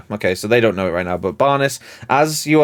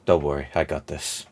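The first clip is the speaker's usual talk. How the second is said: low, soft, understated reassurance; Pluto; 9 semitones lower, 9 dB quieter than usual. Acted. Pluto to the party before veiling the giant, low soft voice. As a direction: drop it right down, quiet and low. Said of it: "Pluto at this point just goes".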